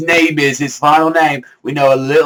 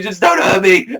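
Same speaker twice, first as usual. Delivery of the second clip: mock scared plea; 7 semitones higher than usual.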